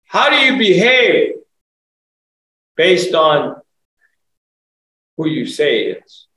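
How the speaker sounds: preaching shout. Real, not acted. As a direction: call them out on their behavior. Preacher challenging the congregation.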